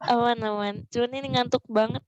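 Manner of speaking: drowsy, dragging voice; sleepy. Real, not acted. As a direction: talk like you're nodding off. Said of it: "Kelihatan sih suaranya kayak, kayak gimana gitu".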